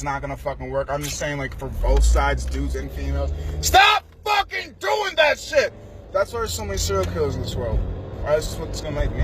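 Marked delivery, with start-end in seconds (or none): 3.6-5.7 angry shout. Real, not acted. Speaker telling people to stop gaslighting, angry shout. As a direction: hammer each word out.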